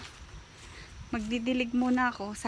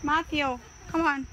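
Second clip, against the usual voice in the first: calling out; 3 semitones higher, 5 dB louder than usual. Real, not acted. Calling child by name.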